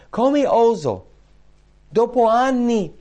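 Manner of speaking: high, loud, drawn-out cry of disbelief; impassioned, high-pitched outcry; anguished cry. Acted. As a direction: cry it out as a sinner who hardly dares. Acting a troubled sinner's question.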